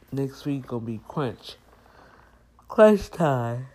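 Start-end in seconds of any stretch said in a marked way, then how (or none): 2.7-3.7 loud emphatic exclaim. Real, not acted. Emphatic exclaim about busy week.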